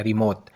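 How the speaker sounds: रिमोत closed on a dental "te"; Arabic final T. Shown as a demonstration. Teacher repeating the word for learners, रिमोत with final dental t. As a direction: end रिमोत on the tongue-to-teeth t. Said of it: "सिर्फ एंड पे ते का फ़र्क है".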